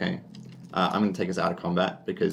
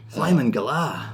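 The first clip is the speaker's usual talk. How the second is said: gruff dad; 8 semitones higher, 4 dB louder than usual. Acted. DM voicing the dad.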